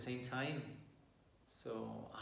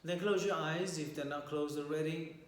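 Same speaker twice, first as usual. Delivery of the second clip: calm meditation guide with long pauses; guided meditation. Real, not acted. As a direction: guide listeners gently through posture and breath, leaving long silences.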